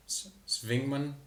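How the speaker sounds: Swingman said slowly with a light German accent; a hint of German on Swingman. Shown as a demonstration. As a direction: say Swingman the German way, slow and careful. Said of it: "if you wanna say it in the German accent".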